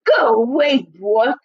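a touch of a shout from inside; pig yelling back. Acted. Pig yells at the wolf through the door, mildly loud. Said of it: "He yelled back".

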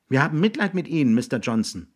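put-on earnest boy. Jiggs answers William.

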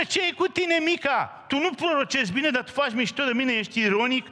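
pitched high, a retold irritated rebuke; mock angry outburst. King Ahab snapping at the prophet Mica, mock angry and high. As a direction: act out the king losing his temper. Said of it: "se enervează ăsta și spune".

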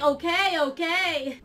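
lightly imitated annoyed giving-in. Player quoting Fishy getting annoyed, mildly annoyed. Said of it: "he's getting annoyed".

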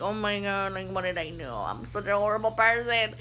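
hushed, horrified to herself; quiet inner panic. Retold or imitated. Stylist thinking to herself after a bad cut, hushed horror. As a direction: mutter the dread under your breath.

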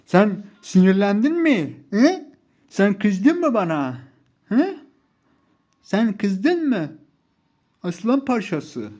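high, loud, drawn-out teasing; mocking taunt. Real, not acted. Taunting an angered rival player. (tiz, uzatarak alay etme)

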